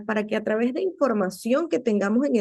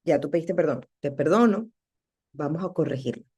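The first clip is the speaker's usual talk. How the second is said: lower, matter-of-fact reassurance; gently forgiving, settling lower; reassuring inner voice; 5 semitones lower than usual. Acted. Voice telling you that you are forgiven, reassuring. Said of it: "la voz que te dice".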